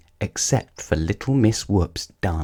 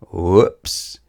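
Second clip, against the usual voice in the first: a quick, bright yelp of surprise; little slip-up cry as she tumbles; startled whoops. Acted. Ballerina falling on her nose, startled whoops.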